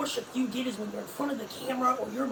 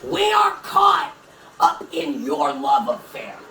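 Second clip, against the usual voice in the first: loud; 11 semitones lower, 7 dB louder, slower than usual. Real, not acted. Belting the lyric.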